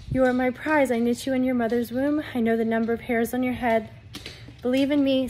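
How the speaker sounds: loud, urgent proclamation in God's voice; forceful prophetic preaching. Acted. Delivers message in God's voice.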